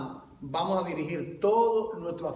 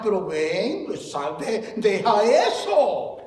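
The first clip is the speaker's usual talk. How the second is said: coaxing the cat; 7 dB louder, slower than usual. Retold or imitated. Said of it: "Y yo cogí una caja".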